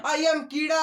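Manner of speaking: playful bug calling out; shouting bug. Pretend. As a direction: shout it like a proud little insect. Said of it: "ऐसे बोलेगा आपसे".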